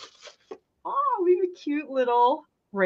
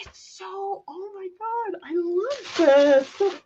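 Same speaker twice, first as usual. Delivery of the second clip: touched; 10 semitones higher than usual. Real, not acted. Touched by the gift.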